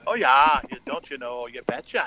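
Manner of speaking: mock Minnesotan accent.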